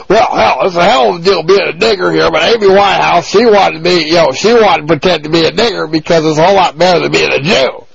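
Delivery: a light parody voice that stays close to his own, quick in places; lightly sends up a comedian's character; hint of a hammed-up parody; mock parody voice. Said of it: "dry ice Washington parody".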